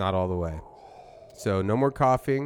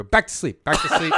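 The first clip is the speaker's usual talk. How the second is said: laughing; 6 semitones higher, 7 dB louder than usual. Pretend. Acting hypnosis, laughing.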